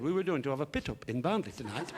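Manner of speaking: g turned to d, s to t; tongue-tied fronted consonants; Harry. Acted. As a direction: protest in a comic speech defect. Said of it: "a slight speech defect".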